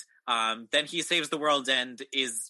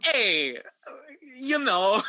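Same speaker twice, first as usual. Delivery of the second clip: laughing; 12 semitones higher, 5 dB louder, much slower than usual. Real, not acted. Defensive laugh.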